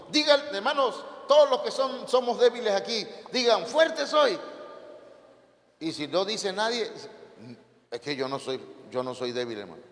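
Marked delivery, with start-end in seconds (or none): 0.1-4.4 high-pitched preacher's exhortation; rallying the congregation. Real, not acted. Preacher rallies congregation to repeat. 7.9-9.8 low, soft imitation of a reluctant believer; meek mock denial. Voices a member denying weakness.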